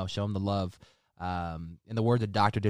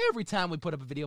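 voice cracking; 8 semitones higher, 4 dB quieter, faster than usual. Real, not acted. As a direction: pitch jumps up as the voice cracks. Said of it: "My voice just cracked right there".

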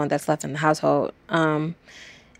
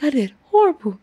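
higher, distraught, full of self-reproach; upset runner; 8 semitones higher, 3 dB louder than usual. Retold or imitated. Exhausted runner telling bystanders she failed, higher. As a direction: fight back despair. Upset after finishing seventh.

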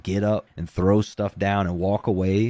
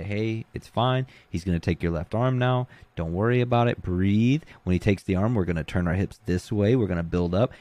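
calm coaching. Retold or imitated. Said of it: "when you're nice and you're calm".

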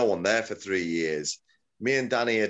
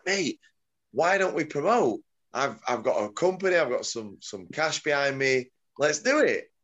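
higher-pitched, keen retold sales pitch; eager proposal; 5 semitones higher than usual. Pitching a promotion to his old gym partner, eager. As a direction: re-enact talking a mate into it.

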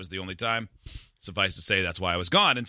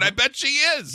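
mock smug reply; 5 dB louder than usual. Boasting reply to girlfriend.

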